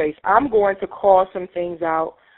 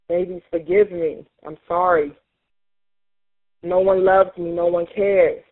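quiet grief. Acted. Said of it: "I'm gonna express the pain".

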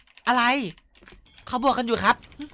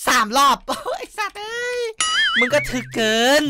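half-laughing fake whimper, higher; mock crying; 6 semitones higher than usual. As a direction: pretend to cry over the game, laughing. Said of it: "กูจะร้องไห้".

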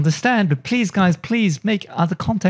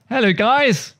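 higher-pitched British greeting; British accent, playfully put on; Steve Knows; 5 semitones higher than usual. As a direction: lightly mimic a British YouTuber's hello. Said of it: "Very British".

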